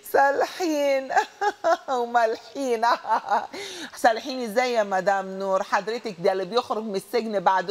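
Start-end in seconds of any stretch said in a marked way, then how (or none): 0.0-4.0 mocking laughter. Real, not acted. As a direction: laugh in her face, mocking every word. Host mocks the warden's claim.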